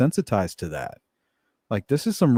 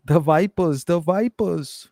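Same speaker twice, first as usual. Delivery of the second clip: slow mocking mobster voice, higher; Tony Soprano; 6 semitones higher, slower than usual. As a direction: drag out the Vipers with a sneer. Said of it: "Tony Soprano looks over at".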